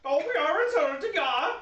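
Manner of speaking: put-on lampoon a Nordic complainer in a silly Nordic accent; mock Nordic accent. Host mocking offended Nordic people, hammed-up Nordic accent. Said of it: "Nordic people like".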